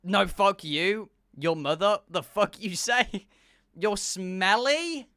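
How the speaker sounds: slow, drawn-out fake outrage; half-serious indignant comeback; mock argument. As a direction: trade playful insults, stretching the words. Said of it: "do a bit of back and forth".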